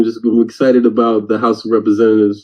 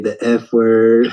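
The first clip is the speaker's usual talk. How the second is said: put-on small child voice; 2 semitones lower, much slower than usual. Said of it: "She's like".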